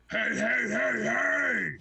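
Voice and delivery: high, loud alarmed calls; alarmed shout. Acted. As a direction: shout to stop them. Ettin head alarmed at growth.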